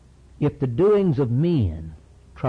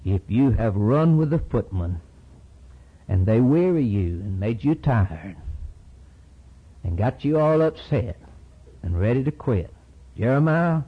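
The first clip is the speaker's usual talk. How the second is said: God rebuking. Acted. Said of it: "And he says".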